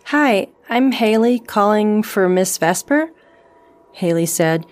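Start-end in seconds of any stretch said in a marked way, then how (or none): 0.0-3.1 slow, polite professional voice; formal phone manner; work tone. Acted. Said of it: "using her work tone".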